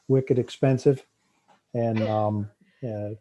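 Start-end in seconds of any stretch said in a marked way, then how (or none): 0.1-1.0 put-on Boston accent. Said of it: "very greatest Boston accent".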